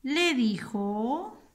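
slow chunks with very long pauses; dictating while writing. Shown as a demonstration. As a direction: stretch each phrase end, held and rising. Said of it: "vamos a escribir una oración".

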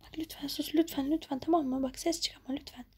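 soft, hushed begging; whispered plea to the girl; pleading whisper. Acted. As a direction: beg her quietly to stay silent. Stranger hushing the girl.

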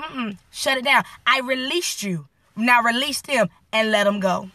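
unhurried and final, like a gentle command; voice of the Lord. Retold or imitated. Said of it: "He'd be like".

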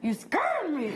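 mock-startled squeal of a kid; Gavin. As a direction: imitate a small boy's comic fright. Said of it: "working on that impersonation".

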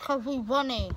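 cheeks stuffed with grapes; mumbled through grapes; mouth full. Real, not acted. Five grapes one side.

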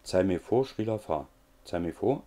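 drilled nonsense syllables, said to oneself; rhythmic self-recitation. Shown as a demonstration. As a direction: repeat "Zeig mir vor, Srila Fa" as three-beat groups. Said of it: "immer wieder vor sich hin sprechen".

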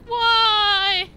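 long, very high loud wail; mock wail. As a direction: cry out like a wronged driver. Voices the small car's driver.

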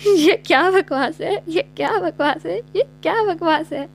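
laughing remix of ये क्या बकवास है; echo remix. Acted. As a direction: replay it like a mocking sound mix. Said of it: "ऐसी आवाज़ों पर".

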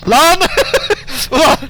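very high, loud startled cry; startled yell. Real, not acted. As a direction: jump out of your skin. Sudden fright at jumpscare. (korkuyla bağırış)

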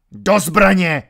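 loud shouted order. A narrator's reading. Baron screaming at soldiers to arms. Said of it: "křičel baron".

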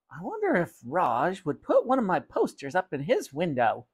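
a hint of a musing mother character; lightly put-on voice for Mother; lightly voiced mother. Mother wonders aloud about her poster, lightly voiced.

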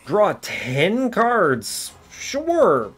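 lightly voiced card announcer; high mock voice. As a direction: chirp it like the card. Voices the game's greedy card.

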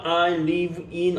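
stretched-out I live in; very slow model phrase. Shown as a demonstration. Teacher builds the answer slowly for students. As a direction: say each word slowly and separately. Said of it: "model sentence slowly".

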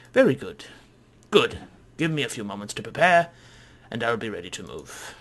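weird, lofty scholar voice, lightly put on; pompous traveller accepting an invitation; Sathos. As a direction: brag grandly as a self-important explorer. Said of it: "a guy with some weird voice".

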